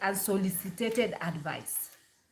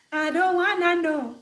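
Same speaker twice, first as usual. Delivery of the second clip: mock singer line; 8 semitones higher, 5 dB louder than usual. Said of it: "quoting viral singer".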